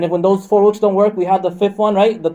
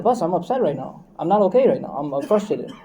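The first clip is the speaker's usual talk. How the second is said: subdued, softer admission of frustration; low-key, understated upset, trailing lower; mock upset husband; 3 semitones lower, 6 dB quieter than usual. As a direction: quietly act out telling the wife you're upset. Acting husband telling wife he's upset.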